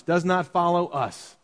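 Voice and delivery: slow phrase leaning on "us"; "us" drawn out as the key word; stress on "us". Shown as a demonstration. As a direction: put the emphasis on the last word, "us". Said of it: "with the emphasis on the word us".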